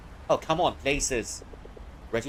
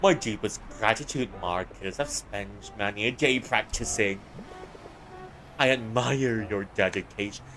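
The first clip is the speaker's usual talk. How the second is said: put-on French accent; 3 semitones lower than usual. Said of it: "Turning French, are we?".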